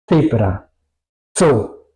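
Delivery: "Zebra", "So" begun with forceful TS; strong German Z. Shown as a demonstration. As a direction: say "Zebra", "So" as "tsebra", "tso". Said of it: "tenemos mucho contacto". ("Zebra", "So" con TS fuerte)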